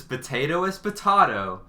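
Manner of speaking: potato said po-TAH-to; odd potato. Retold or imitated. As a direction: say potato with a broad AH, "potahto". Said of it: "She unironically said it that way".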